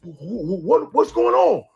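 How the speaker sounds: stammering, high-pitched talking dog; mock-timid cartoon dog voice; cowardly dog. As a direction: stutter like a dog losing its nerve. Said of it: "that dog was a bitch".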